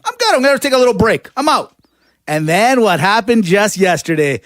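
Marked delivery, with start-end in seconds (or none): 0.0-1.7 higher-pitched voicing of a coach bowing out; breezy mock sign-off. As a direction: lightly act out a casual exit. Voicing coach quitting, retold.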